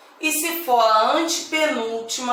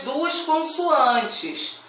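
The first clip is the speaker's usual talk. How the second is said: slowed right down on duas consoantes; deliberate teacher emphasis; slow stressed explanation; 4 semitones higher, much slower than usual. Shown as a demonstration. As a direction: lean on each word of duas consoantes, drawn out. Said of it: "nós conseguimos ouvir o som dessas".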